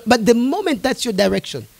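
quiet. Real, not acted. Preacher describing resistance, quiet and low. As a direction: sink to a near hush.

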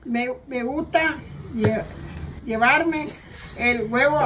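careful reading. Shown as a demonstration. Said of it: "Lee bien".

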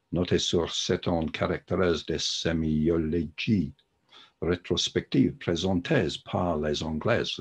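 slow, self-conscious French read by an English speaker; French accent. Real, not acted. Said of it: "That was probably the worst French accent you ever heard".

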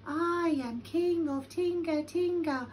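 high, drawn-out hollow call; big echoing voice. A narrator's reading. Cave answering Lion, big echoing voice. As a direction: echo back from the cave. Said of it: "answered a big voice".

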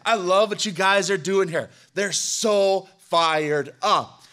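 lightly voiced gushing newcomer, slow; gushing churchgoer friend. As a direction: gush over the service like a starry-eyed visitor. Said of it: "that friend out to church".

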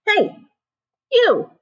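high, shouting ant troop; rowdy ants yelling. Acted. Rowdy ants yell at Snail blocking their road, high and shouting. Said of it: "yelled a troop of rowdy ants".

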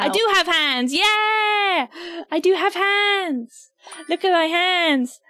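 gleeful, stretched-out cheer; excited showing off. Real, not acted. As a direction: show off proudly, drawing words out high.

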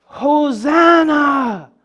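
long, drawn-out cry of the crowd; mild crowd yell. Acted. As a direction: stretch it out like a calling crowd. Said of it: "They're yelling".

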